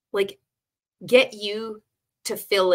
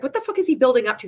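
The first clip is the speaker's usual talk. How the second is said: incredulous; 5 semitones higher, 4 dB louder, much faster than usual. Retold or imitated. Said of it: "I was like".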